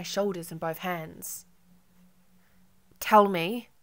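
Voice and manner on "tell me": "Tell" and "me" hit with equal louder weight; equal emphasis. A narrator's reading. Marco grips her shoulders, each word evenly stressed. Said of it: "giving each word equal emphasis".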